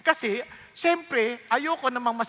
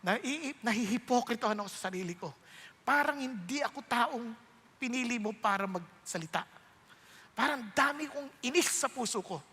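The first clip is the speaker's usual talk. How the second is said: retold tearful prayer; 5 dB quieter than usual. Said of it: "Iyak ako sa Diyos".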